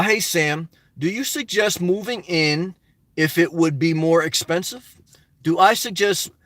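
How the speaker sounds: slow, stumbling read of a question; reading aloud haltingly. Shown as a demonstration. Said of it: "let me read this slowly".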